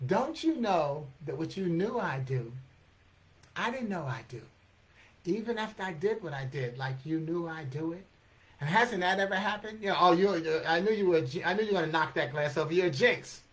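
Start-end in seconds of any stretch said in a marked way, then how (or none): 0.1-8.0 unhurried, measured replay of the verse; slow motion. Shown as a demonstration. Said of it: "And in slow motion". 10.0-13.4 mock accusing. Acted blame over knocked glass.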